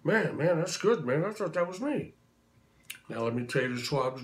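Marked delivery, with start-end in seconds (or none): 0.0-2.1 lightly imitated star, pitched up in surprise; a famous singer. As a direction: react with higher-pitched, mock disbelief. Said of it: "He goes".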